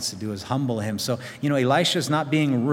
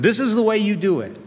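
much higher, louder dictating tone; bossy demand; 9 semitones higher, 5 dB louder than usual. Pretend. Believers dictating their plans to God, bossy. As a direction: instruct God like a boss.

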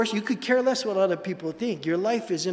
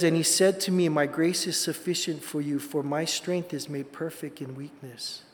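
scripture reading; 3 semitones lower than usual. Acted. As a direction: let the verse settle gently. Reads scripture.

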